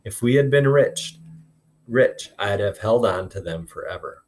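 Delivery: expressive read-aloud, voicing each character lightly; storytelling voice for a classroom; story read aloud to class. A narrator's reading. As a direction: read the chapter to the kids, bringing the dialogue to life. Teacher reads novel aloud to class.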